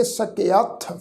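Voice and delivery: ਸਕਯਥ said "sa-ke-yath"; ਸਕਯਥ in clear syllables, ending on "th"; careful pronunciation. Shown as a demonstration. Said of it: "ਤੋ ਪਾਠ ਉਚਾਰਨ ਕਰਾਂਗੇ".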